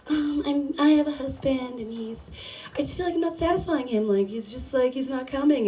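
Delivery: quiet, quick, hesitant caller confessing; timid caller. Retold or imitated. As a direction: mumble it softly and fast like a shy caller. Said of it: "this caller that was like".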